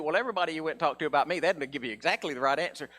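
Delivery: fast, smooth mock preacher assurance; preacher thing. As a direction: pastor mocks a slick preacher reassuring the church, fast. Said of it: "I'd like to do the preacher thing".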